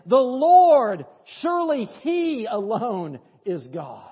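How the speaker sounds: loud slow proclamation; proclaiming. Acted. People fallen on their faces proclaiming, loud and slow. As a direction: cry it out in awe. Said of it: "fell on their faces and said".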